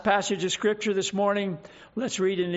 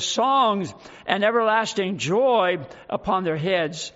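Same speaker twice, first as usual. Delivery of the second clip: loud-ish, measured Bible reading; solemn, emphatic pulpit reading; scripture reading; 2 semitones higher, 3 dB louder than usual. Acted. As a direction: read scripture out with weight to the congregation. Reads scripture aloud to congregation.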